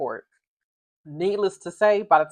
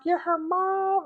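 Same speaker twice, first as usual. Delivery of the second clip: surprised; 12 semitones higher, 3 dB quieter, much slower than usual. Retold or imitated. Star surprised to meet mom.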